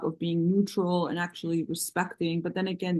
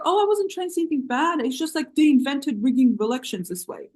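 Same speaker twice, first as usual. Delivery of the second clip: mocking; 5 semitones higher, faster than usual. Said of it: "she's like".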